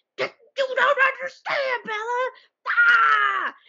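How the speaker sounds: mock very high angry yelling, ah stretched. Summarizing a chapter, acting out a character yelling: imitating Edward yelling. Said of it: "Edward is yelling".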